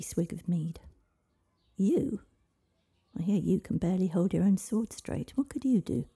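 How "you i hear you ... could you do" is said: raised pitch on the questions, scornful king; king's mocking challenge; incredulous scoff. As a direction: scoff in loud disbelief at the very idea.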